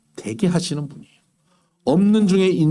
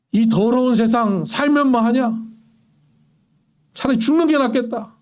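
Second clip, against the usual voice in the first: despairing grumble; 4 semitones higher than usual. Retold or imitated. A despairing man grumbling to no one about his life, bitter sigh. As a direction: grumble it like someone tired of living.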